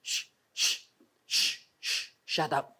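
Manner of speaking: soft shushing, then a low, quiet shut up; hushing. Acted. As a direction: hush them into silence. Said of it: "kailangan tahimik ka lang".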